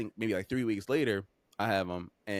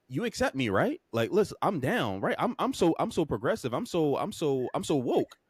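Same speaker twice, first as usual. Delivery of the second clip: higher, over-eager mock self-promotion; mock eager-to-please; 5 semitones higher than usual. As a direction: imitate a man pleading to seem progressive. Mocking men who court women's approval.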